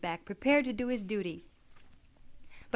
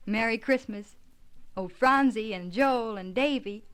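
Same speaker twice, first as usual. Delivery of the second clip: calling upstairs; 6 dB louder than usual. Acted. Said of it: "go to the foot of the stairs and call".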